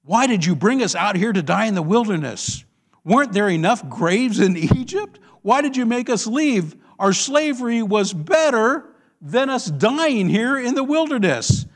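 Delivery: acted aggrieved protest; complaining. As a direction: accuse the leader with mounting grievance. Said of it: "they turned against Moses and they complained".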